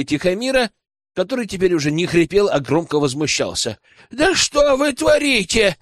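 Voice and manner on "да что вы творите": much higher, slow, indignant howl; a high, slow cry of protest; outraged wail. Acted. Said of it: "вопил он".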